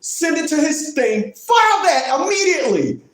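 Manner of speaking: high, hammed-up urgent orders; mock-urgent attorney. Attorney coaching her client on a motion, high mock urgency. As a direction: rattle off instructions in fake panic. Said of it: "Her attorney is gonna say".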